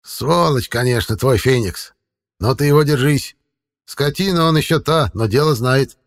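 put-on grumbling old man; grumpy. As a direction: grouse at the cat. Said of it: "сварливо заметил".

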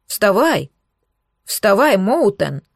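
мягко озвученный зов толпы; лёгкий намёк на кричащую толпу; призывные крики. Acted. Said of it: "отдельные крики ... истовый зов". (сдержанный призыв болельщиков)

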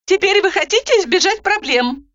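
high, brisk interrupting voice; Roza cutting in. A narrator's reading. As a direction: cut her off, businesslike. Roza on the phone.

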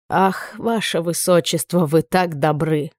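slow, mirthless, resigned irony; rueful wry sigh. A narrator's reading. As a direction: say it with a joyless chuckle. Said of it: "невесело усмехнулся герцог". (невесело усмехаясь, медленно)

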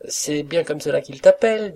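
high, loud, amused cook; tickled by what she takes for mimicry; laughing cook. A narrator's reading. Cook praising the valet's supposed impression, high and amused. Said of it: "La rieuse cuisinière".

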